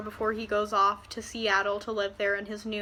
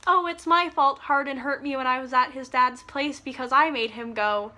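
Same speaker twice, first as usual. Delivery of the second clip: mocking Tessa. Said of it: "I'm gonna pretend to be you for a minute".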